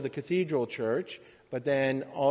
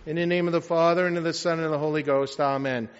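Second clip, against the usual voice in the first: brisk, raised formula of blessing; liturgical invocation; 3 semitones higher, 6 dB louder, faster than usual. Real, not acted. Priest opens the homily in the name of the Father, brisk invocation. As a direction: rattle off the opening prayer formula firmly.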